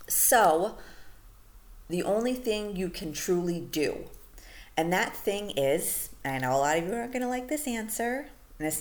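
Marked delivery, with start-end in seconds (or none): 1.9-6.1 "only" and "that" stressed, slowed down; slow emphatic build-up. Shown as a demonstration. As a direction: spell it out slowly. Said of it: "the reason I'm stressing this".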